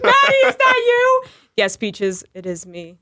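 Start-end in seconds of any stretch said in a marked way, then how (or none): 0.0-1.2 high, loud teary calling out; mock distant call. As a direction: call out far away, half crying. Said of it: "You're like".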